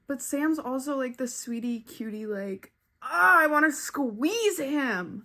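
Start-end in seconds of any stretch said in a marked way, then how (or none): 3.0-5.2 high, drawn-out adoring squeal; gushing squeal. Real, not acted. Reader gushing over a sweetie cutie character, adoring squeal. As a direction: squeal it slowly, overcome by cuteness.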